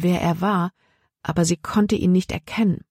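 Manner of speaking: usual speaking voice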